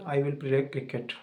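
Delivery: the English sentence drawn out very slowly; slow, deliberate demo. Shown as a demonstration. Teacher showing students the future tense, very slow. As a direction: spell out I will play cricket word by word. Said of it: "दो sentence बताता हूँ मैं English में".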